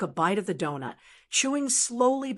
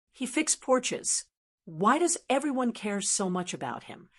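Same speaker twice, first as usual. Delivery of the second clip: mild yell. Acted. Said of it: "Brandon yelled".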